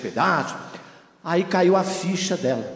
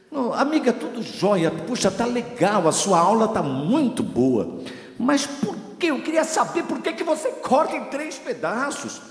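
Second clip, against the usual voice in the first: pleading friend; 7 semitones higher than usual. Retold or imitated. Friend asking the cook why she cuts three pieces, in a high sugary pleading voice. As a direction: coax her for the reason in a sugary high voice. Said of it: "friend's insistent question".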